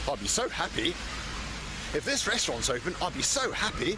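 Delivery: mock sing-song voice, rising at the end; replaying the odd voice. Shown as a demonstration. To the camera, mimics his own odd voice. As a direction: put the silly voice back on. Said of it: "I said".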